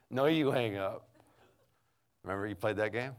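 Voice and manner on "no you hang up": higher, louder playful insistence; dating sweetheart. Acted. Sweethearts on the phone refusing to hang up, playfully insistent. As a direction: push back in mock lovey-dovey voice. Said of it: "when you're dating".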